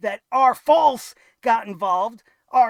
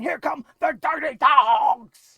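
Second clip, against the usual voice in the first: slow, loud mock announcer call; announcer impression; 3 semitones higher, 6 dB louder, slower than usual. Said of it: "Now he's gonna be saying".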